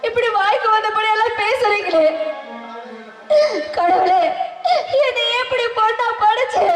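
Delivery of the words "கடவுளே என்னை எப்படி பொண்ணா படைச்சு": crying plea. Acted. Wife cries out to God.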